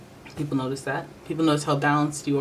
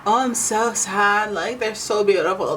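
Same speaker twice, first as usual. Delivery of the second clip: mock lovesick sigh; 6 semitones higher, slower than usual. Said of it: "not a".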